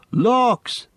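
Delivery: very high startled cry; shocked exclamation. A narrator's reading. Merry looks in at the flooded floor, high shocked cry. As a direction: gasp at the mess.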